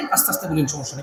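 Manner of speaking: softly. Shown as a demonstration. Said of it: "বেশি জোরে বলি না, তাহলে গলা ভেঙে যাবে".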